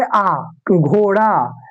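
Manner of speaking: drawn-out आ in घोड़ा, final आ stressed hard; slow teacher demo of आ, घोड़ा; stressed long aa. Shown as a demonstration. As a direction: stretch the final आ of घोड़ा slowly. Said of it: "इसको जोर से उच्चारण करेंगे".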